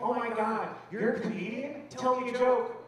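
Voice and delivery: excited passenger. Retold or imitated. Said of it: "He's like".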